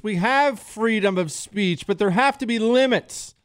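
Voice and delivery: high, mocking parody of politicians; hammed-up politician mockery; mocking Democrat politicians. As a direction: lampoon them in a high, preachy voice. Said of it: "have routinely come out and said things".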